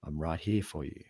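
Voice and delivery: soft, low reassurance; hushed, steady comfort; quietly. Acted. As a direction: reassure a partner very gently and quietly. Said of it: "go and sit there quietly".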